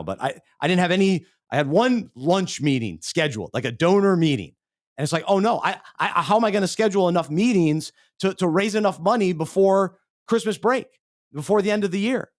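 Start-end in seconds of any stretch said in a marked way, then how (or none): 5.3-12.3 higher, retold panicky voice; fretting aloud, half-acted panic; mock panic. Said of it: "now all of a sudden I start panicking".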